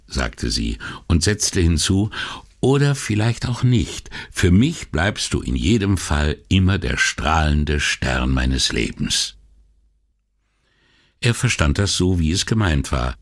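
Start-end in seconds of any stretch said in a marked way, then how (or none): 2.6-9.4 tender teasing wife. Acted. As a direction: tease him lovingly. Wife's loving teasing. (Ehefrau, zärtlich neckend)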